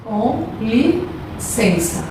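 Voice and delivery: drawn-out Portuguese gloss; slow translation. Shown as a demonstration. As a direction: stretch each syllable for the class. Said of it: "de quando a gente vai pedir alguma coisa em inglês".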